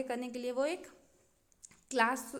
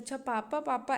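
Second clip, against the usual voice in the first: encouraging parent. Retold or imitated. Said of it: "ऐसा करके".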